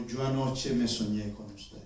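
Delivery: low, soft, slow confession; relieved. Acted. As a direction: confess it quietly, with relief after a fright. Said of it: "Y la señora suspiró, aliviada". (confesión baja y lenta, con alivio)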